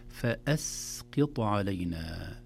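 فأسقط very slow, light "fa-as" before heavy ق; ترقيق الفاء والهمزة. Shown as a demonstration. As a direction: keep the first three letters of فأسقط thin. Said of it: "الترقيق الفاء والهمزة والسين". (فأسقط بفاء وهمزة وسين مرققة)

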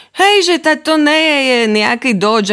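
high outraged discovery; indignant surprise. Acted. Notes finding out the rain was a hose. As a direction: exclaim at the trick.

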